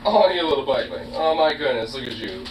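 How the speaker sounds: cooing softly to a pet; pet talk. Real, not acted. Greeting the pet that missed them, soft cooing. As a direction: fuss fondly over a little animal.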